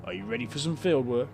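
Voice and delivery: light Cockney councillor voice; a hint of Cockney, welcoming tone; Cockney accent. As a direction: play the councillor with a mild Cockney lilt. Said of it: "he's got a Cockney accent".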